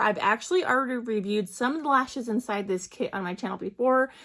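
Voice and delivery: talking around a retainer; slightly lisped, retainer in mouth; wearing a retainer. Real, not acted. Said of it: "if I'm talking a little funny, I do have my retainers in".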